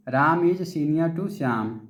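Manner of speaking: slow, deliberate dictation of the example; slow example sentence. Shown as a demonstration. Teacher reading an example sentence to the class, very slowly. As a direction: spell out each word for the students. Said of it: "जैसे".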